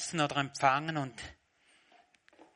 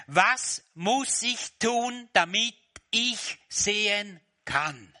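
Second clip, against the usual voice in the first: pleading question; 9 semitones higher, 8 dB louder, slower than usual. Pretend. Hypothetical question, loud, slow.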